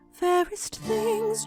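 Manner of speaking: normal talking voice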